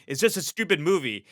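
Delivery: hammed-up bewildered self-talk; frantic inner voice. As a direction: play your own baffled alarm at crying. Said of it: "I'm like".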